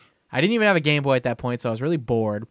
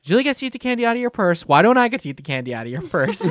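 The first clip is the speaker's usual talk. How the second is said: put-on higher, fast, whining little boy; boy whining to grandma about candy, fast and high; whiny kid complaint; 6 semitones higher, 4 dB louder, faster than usual. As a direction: complain like a jealous toddler. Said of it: "I'm like".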